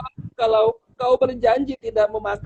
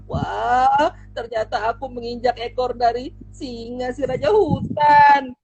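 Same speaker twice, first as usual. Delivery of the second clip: panicked mouse; 2 semitones higher than usual. Acted. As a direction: gasp it out, scared little mouse. Tikus panik menginjak ekor singa. (tikus kecil yang panik, suara tinggi ketakutan)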